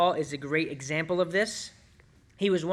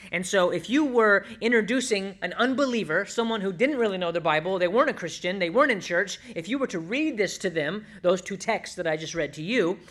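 normal talking voice

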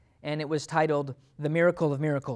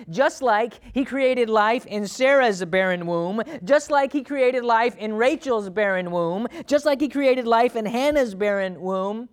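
loud, raised-pitch preacher cadence; full-force preaching; 7 semitones higher, 8 dB louder than usual. Real, not acted. Preacher reminding church of barren wombs God filled, full-force preaching. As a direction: drive each repetition home forcefully.

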